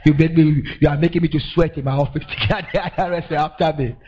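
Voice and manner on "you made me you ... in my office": mock accusing. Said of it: "The guy said".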